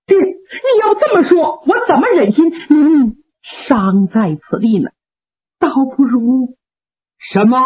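高声带哭地喊出"爹"; 心疼父亲, 哭着喊出来. Acted. 八郎哭喊劝父. (哭喊着劝)

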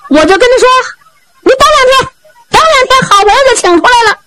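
a fretful, high-pitched servant pouring out his woes; high comic Zhao Bi voice. Acted. Zhao Bi laments to Fourth Uncle, high and fretful. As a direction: complain fast and high, like a flustered fool. Storyteller holds Zhao Bi's voice.

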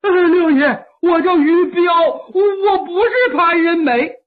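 loud, tearful pleading; panicked prisoner crying for mercy; frantic begging. Acted. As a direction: shout it as if the spear is at your throat. Prisoner begs spear-wielding Liulang.

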